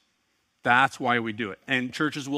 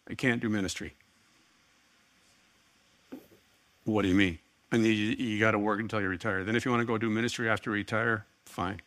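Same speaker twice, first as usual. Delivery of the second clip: brisk lower mock version of wife; curt exaggerated retelling; 3 semitones lower, faster than usual. Pastor retelling wife's words to congregation, mock curt. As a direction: rattle it off fast, a bit blunt. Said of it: "Didn't say it like that".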